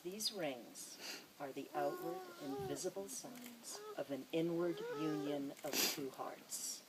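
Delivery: a sincere blessing to the couple over their rings. Real, not acted. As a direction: say it from the heart, gently. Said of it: "and I mean this sincerely".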